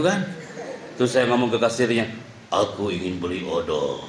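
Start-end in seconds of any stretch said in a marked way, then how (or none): 2.5-4.0 mock epic voice for buying toothpaste; dubbing voice. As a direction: say a trivial line like a solemn hero. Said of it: "ngomongnya kayak gitu". (suara dubbing berat yang dibuat-buat)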